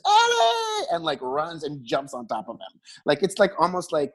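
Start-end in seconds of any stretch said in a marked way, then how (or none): 0.0-0.8 laughing scream. Retold or imitated. Scream retold while laughing.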